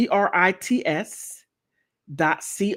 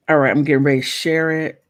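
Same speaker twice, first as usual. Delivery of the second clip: louder, eager announcing; real excitement, louder than usual; excited loud talk; 2 semitones lower, 5 dB louder, much faster than usual. Real, not acted. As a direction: burst out with the find. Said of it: "I don't mean to be talking like that".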